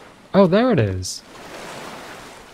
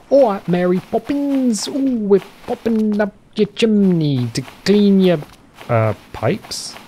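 high, hammed-up English accent; jokey English accent, pitched well up; 8 semitones higher than usual. Shown as a demonstration. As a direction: put on a Mary Poppins chimney-sweep English accent. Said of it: "can you do an English accent".

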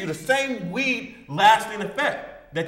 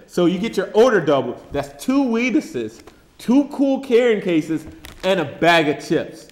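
home shopping host; 2 semitones lower than usual. Acted. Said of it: "home shopping offer pitch".

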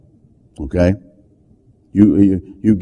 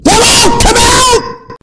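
screamed command; much slower than usual. Retold or imitated. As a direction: yell it out like an exorcist. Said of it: "I screamed".

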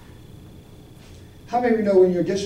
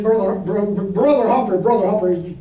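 flustered pastor; 2 semitones higher, 6 dB louder than usual. Retold or imitated.

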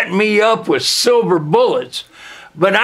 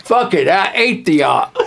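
usual speaking voice

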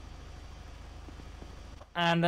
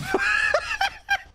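high, loud burst of laughter; 4 dB louder than usual. Real, not acted. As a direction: crack up loudly. Amused by Your Majesty remark.

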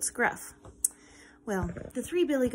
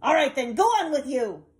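grumpy troll; 4 semitones higher, 7 dB louder than usual. Acted. Troll lets goat pass.

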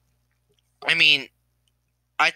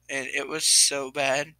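tearful; 3 dB quieter, slower than usual. Real, not acted. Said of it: "there's an actual tear running down my face".

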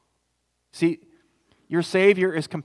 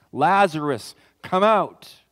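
a raised call into the tomb, higher and louder; calling out loudly; 4 semitones higher, 7 dB louder, slower than usual. Acted. Jesus calls Lazarus out of the tomb, loud command. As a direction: call the dead man out of the grave. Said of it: "Jesus called out in a loud voice".

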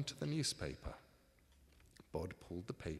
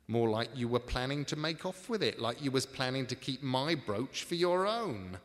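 louder, higher, indignant charge; heated accusation; 5 semitones higher, 7 dB louder than usual. Acted. Ebenezer accuses Tom of planning to keep his brooch, indignant. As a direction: accuse him outright, voice raised.

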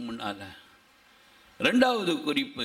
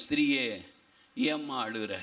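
gentle question; 5 semitones lower than usual. Acted. Jesus to the weeping woman at the tomb, gentle. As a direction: ask it tenderly, pitched well down.

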